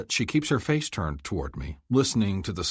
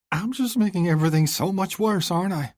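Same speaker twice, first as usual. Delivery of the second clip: higher, louder, tearful pleading; bursting into tears; 11 semitones higher, 4 dB louder than usual. Acted. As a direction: voice cracking as the tears come. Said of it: "she bursts into tears".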